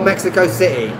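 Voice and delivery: CITY said with the T dropped to a glottal stop; London glottal T. Shown as a demonstration. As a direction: swallow the T in City, London style. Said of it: "I always laugh when you say Mexico City".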